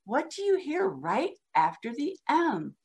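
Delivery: put-on a soft prompt to a child, gently asking; gentle teacher question. Shown as a demonstration. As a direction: coax the child to listen. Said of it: "you ask them".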